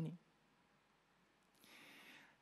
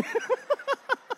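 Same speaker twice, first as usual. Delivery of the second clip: high laugh. Real, not acted. Laughs at his own story.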